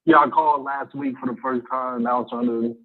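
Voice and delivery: talking away from the phone; phone held away. Real, not acted. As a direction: voice faint and far from the mic. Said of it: "Speak into the phone".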